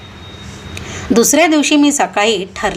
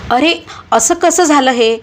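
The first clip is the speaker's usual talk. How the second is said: higher, stunned cry of disbelief; shaken disbelief; 6 semitones higher than usual. Acted. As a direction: reel at the bad news. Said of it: "मी आता थरथर कापत होतो".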